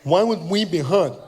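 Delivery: imitated deaf speech, mildly indignant; deaf fan. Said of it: "he was partially deaf".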